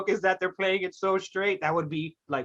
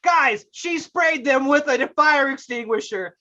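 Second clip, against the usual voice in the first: higher, slow, hammed-up insistence; quirky best friend; 5 semitones higher, 4 dB louder, slower than usual. Defending the quirky best friend to the audience, hammed-up insistence. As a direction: stretch it out in mock exasperation. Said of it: "She's the quirky best friend".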